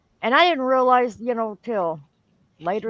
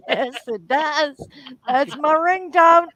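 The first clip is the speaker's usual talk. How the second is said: retold owning-up; 4 semitones higher, 5 dB louder, slower than usual. Owner retells owning up to ringtone.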